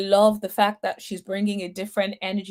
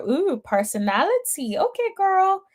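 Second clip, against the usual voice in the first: high-pitched, playfully impressed ooh; intrigued reaction; 10 semitones higher than usual. Retold or imitated. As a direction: act out being pleasantly intrigued, pitch jumping up. Acting out her intrigued reaction.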